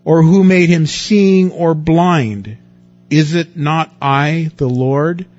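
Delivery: loud, slow and commanding; booming voice of God. Acted. Preacher voicing God answering Moses, loud and slow. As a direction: thunder it out as the Lord.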